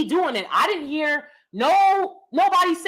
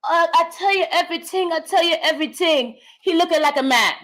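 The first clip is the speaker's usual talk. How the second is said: lightly higher, put-on sitcom voice; caricature Asian character; 4 semitones higher than usual. A hint of the Mad TV character he used to imitate. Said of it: "this Asian character would say".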